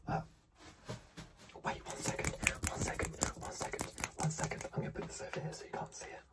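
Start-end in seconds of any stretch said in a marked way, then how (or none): 1.8-6.2 whispering ASMR. Acted.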